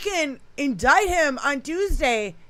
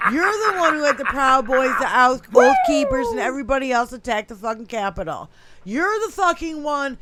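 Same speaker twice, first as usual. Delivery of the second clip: angry rant; 4 dB louder than usual. Real, not acted. Host ranting at Trump, furious and loud. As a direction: yell it out in fury.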